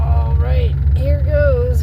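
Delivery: loud, keyed-up all right before the test; excited. Real, not acted. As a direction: build up loud anticipation. About to test the car.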